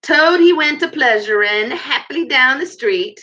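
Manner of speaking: lightly squeaky weasel voice; high, squeaky voice. A narrator's reading. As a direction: pitch it up like a little weasel singer. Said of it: "began in a high, squeaky voice".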